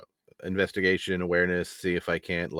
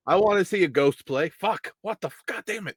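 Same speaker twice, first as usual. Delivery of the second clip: high, eager, barely contained glee; excited nerd-out; 8 semitones higher than usual. Acted. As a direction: gush like a fan holding back. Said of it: "Rory's trying really hard not to just nerd out".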